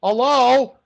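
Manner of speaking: mock hello. Mock greeting to mobster Al.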